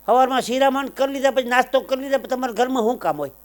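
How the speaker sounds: high-pitched nagging housewife act; put-on female voice, pitched well up; daughter-in-law. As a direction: shoo the elder off in a high voice. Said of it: "તો વહુ દીકરી શું કે".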